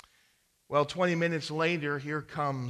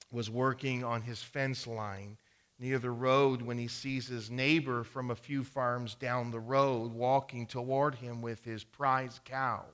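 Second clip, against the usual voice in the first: ordinary talk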